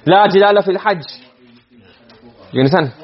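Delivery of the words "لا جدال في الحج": rapid recited verse; quick Arabic quote; fast recitation. Shown as a demonstration. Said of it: "I'm just telling you".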